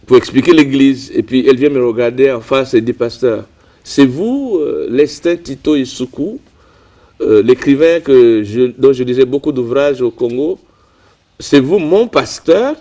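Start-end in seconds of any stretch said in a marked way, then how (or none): 2.9-12.8 lightly imitating a surprised churchgoer; mild retold surprise. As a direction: pitch jumps up on "c'est vous", gently incredulous. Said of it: "Elle était vraiment surprise".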